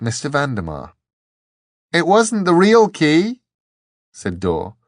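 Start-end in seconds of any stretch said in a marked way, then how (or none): 1.9-3.4 high, loud, slow crowing; triumphant shout. A narrator's reading. Dor to the angel over the wind, triumphant. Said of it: "triumphantly, over the roar of the wind".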